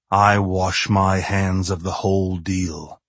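a hint of a tired old patient; old man voice.

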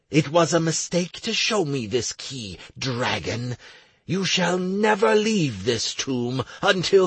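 cold, cruel hermit voice, lightly voiced; loathing hermit. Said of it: "voice was so steeped in loathing and cruelty".

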